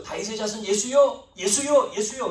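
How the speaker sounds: mock calling over a crowd; retold crying out. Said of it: "소리를 버럭버럭 질러요".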